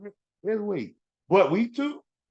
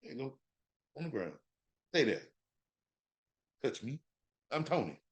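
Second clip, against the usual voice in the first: mocking Tony; 10 dB quieter than usual. Mock quote of Tony's thoughts.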